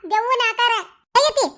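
half-crying as she tells it; tearful. Acted. Grandmother tearfully tells son about the lift boy, crying. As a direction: voice wet with tears. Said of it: "ಯಾಕ್ ಅಳಾಕತ್ತಿದಿ?".

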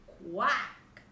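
loud storybook quack; duck's quack. A narrator's reading. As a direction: quack out like a duck. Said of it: "said the duck".

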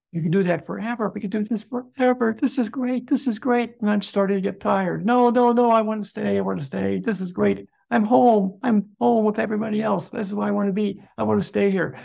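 a soul that won't leave its joy; joyful pleading. Retold or imitated. Reliving the afterlife, begging to stay there: giddy and high.

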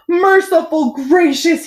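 high, drawn-out astonishment; aghast gulp. A narrator's reading. Bell ringer spots the green goo, gulping aghast. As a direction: exclaim it slowly, aghast. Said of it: "he gulped".

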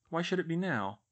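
ordinary delivery

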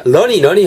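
runny said like lonny, with an L; wrong L-like runny. Shown as a demonstration. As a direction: let runny slide into an L sound. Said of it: "그러면 L로 듣기거든요".

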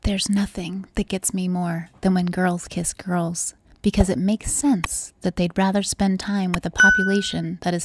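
weak whisper that keeps slipping; barely whispering; half-hearted sultry whisper. Pretend. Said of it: "You didn't whisper as much on that one".

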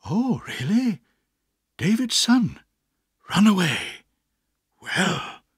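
lightly voiced, puzzled old gentleman; vague Mister Dick. A narrator's reading. Mister Dick hears the news, mildly puzzled. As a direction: mull it over, a bit lost.

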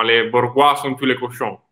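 mock French accent, hammed up; fake French accent. Shown as a demonstration. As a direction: put on a joking French accent. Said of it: "adesso faccio un finto francese".

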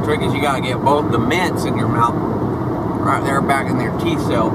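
mock Southern accent. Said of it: "Kinda clicks when you talk like that".

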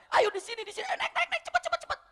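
very high, frantic calling, hurrying others on; a bluff of a rallying cry, laughing; mock urgent shout. Abu Hudzaifah fakes a rallying cry, very high and frantic. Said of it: "sambil dia pura-pura pegang".

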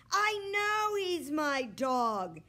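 put-on worried boy insisting. A narrator's reading. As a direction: plead your claim like a worried kid. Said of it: "Henry sounded worried".

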